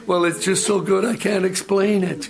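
high, pleading through put-on tears; acted happy crying, pitched high; mock tearful. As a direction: imitate a weepy testifier. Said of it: "why are you crying".

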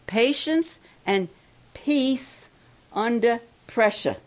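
each word of "patience and peace under pressure" spaced out and weighted; slow catchphrase, stressing "peace" highest; slogan stress. Shown as a demonstration. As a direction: hammer home "patience", "peace" and "pressure" one by one. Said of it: "I like to say it like this".

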